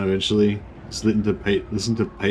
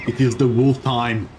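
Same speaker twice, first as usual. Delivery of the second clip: Viking voice; 2 semitones higher, slower than usual. Pretend. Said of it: "I'd be like".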